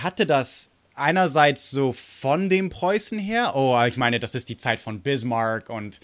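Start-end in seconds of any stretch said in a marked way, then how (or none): 3.9-6.0 German said with an American accent. Real, not acted. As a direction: read it like an American speaking German. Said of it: "sorry, dass ich das mit amerikanischem Akzent sagte".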